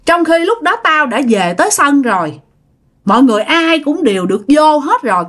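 retold reproach, mildly indignant; scolding. Spirit complains she was left uninvited to the feast, acted scolding. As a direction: press the complaint home as an offended spirit. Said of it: "Tự nhiên bà Út nói vậy".

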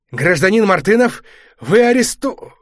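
loud, high official proclamation; formal arrest announcement. A narrator's reading. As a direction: declare the arrest loudly.

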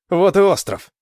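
high, loud burst of excitement; excited cry. Acted. Alan spots the island ahead.

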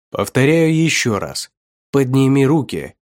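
clipped command. Acted. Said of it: "чеканил полковник".

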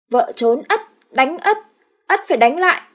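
put-on high, loud childish man voice; high childlike husband's voice; simpleton husband. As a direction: play a dim-witted brute. Ất speaks of himself.

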